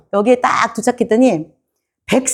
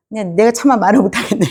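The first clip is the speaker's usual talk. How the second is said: ordinary talk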